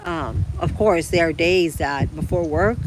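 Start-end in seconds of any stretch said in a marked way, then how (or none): 1.1-2.8 words stretched by a yawn. Real, not acted. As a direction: talk through a yawn. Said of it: "excuse me, I'm yawning".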